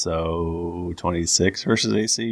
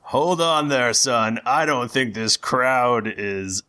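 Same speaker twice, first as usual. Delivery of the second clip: arena master voice; 4 semitones higher than usual. Acted. Arena master addresses the party.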